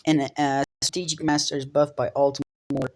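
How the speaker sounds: talking stiffly through jaw pain; careful speech, sore injured jaw. Real, not acted. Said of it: "I sound weird, but my jaw is fractured".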